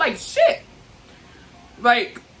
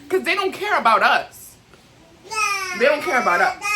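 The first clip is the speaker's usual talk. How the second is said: near tears; 5 semitones higher than usual. Real, not acted. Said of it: "After I'm getting emotional".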